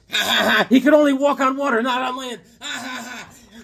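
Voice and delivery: high, loud laughing retelling. Real, not acted. Vlogger cracking up at the comic's twist, laughing. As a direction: laugh through the punchline. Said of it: "laughing at the twist".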